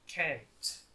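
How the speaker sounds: can't said with a flat open a, as in "cant"; American can't. Shown as a demonstration. Teacher models the American can't for the class. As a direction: give can't the American vowel. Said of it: "Can't pronounce as".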